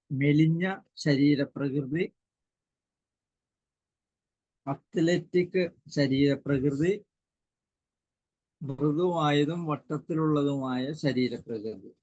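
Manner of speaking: slow, drawn-out words with long gaps; slow dictation. Real, not acted. Teacher dictating list to students taking notes, slow dictation. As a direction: dictate slowly, leaving time to write.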